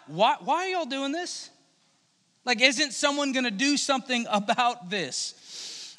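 acted incredulous protest; upset. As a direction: demand answers, mildly indignant. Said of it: "David is all upset".

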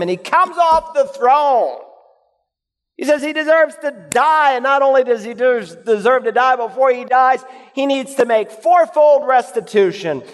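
preacher voicing an enraged king; rising indignation. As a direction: build the outrage of the enraged king. Acting out David's outburst.

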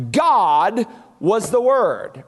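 slow, weighty stress on "God"; emphatic. Shown as a demonstration. Preacher showing the emphatic Greek word order, slowly stressed. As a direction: set "God" apart, then let "was the Word" fall. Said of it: "unless you wanted to emphasize".

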